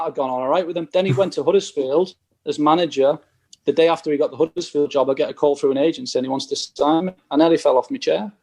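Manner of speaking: ordinary delivery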